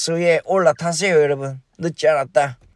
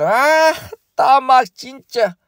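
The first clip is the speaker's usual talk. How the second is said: frustrated outburst; 8 semitones higher, slower than usual. Real, not acted. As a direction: burst out in frustration. Frustrated at stock price.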